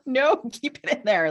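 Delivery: high, loud protest; hammed-up desperate no; mock urgent plea. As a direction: cry out to stop them. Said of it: "you gotta be like".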